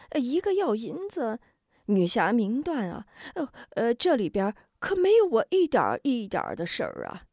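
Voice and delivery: high, stammering coward denying everything, rushing at the end; a terrified lackey scrambling for excuses; cowardly henchman. Acted. Cowardly Xu Ren denies.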